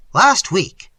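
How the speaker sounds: loud, sharp and indignant; angry. A narrator's reading. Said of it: "he began angrily".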